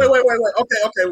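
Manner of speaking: loud, high rapid-fire protest; urgent interjection. Real, not acted. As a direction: burst in to halt the debate. Cuts in on a disagreement.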